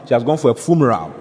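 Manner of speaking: "funeral" turned into "fumeral"; child's mispronunciation. Retold or imitated. Retelling the niece's message to the creditor, "funeral" mispronounced as "fumeral". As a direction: put an m for the n in "funeral". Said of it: "she said funeral".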